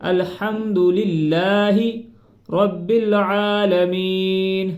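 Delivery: very slow, tuneful recitation; drawn-out recitation; melodic recitation. Shown as a demonstration. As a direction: chant the phrase out long. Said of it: "اعلیٰ نہیں کرنا اب".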